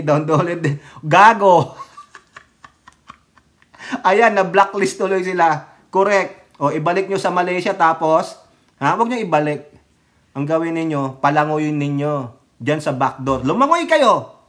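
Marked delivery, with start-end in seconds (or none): 1.1-4.1 laughing insult. Real, not acted. Laughing insult at a lame excuse. 13.5-14.4 mock shout. Mock order to swim back home.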